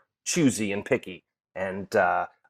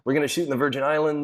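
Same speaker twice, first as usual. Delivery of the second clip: put-on quick, pitched-up stab at the producer's accent; eccentric producer's accent; 4 semitones higher, faster than usual. Retrying the producer's line after admitting he can't do the accent, quick and light. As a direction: rattle it off in a half-hearted producer accent. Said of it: "I can't do his accent".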